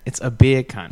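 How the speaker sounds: beer can with a British accent. Shown as a demonstration. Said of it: "when you say beer can in a British accent".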